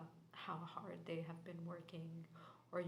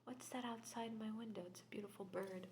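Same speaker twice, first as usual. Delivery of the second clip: whisper. Real, not acted. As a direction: breathe the reading out in a hush. Tarot reading in whisper.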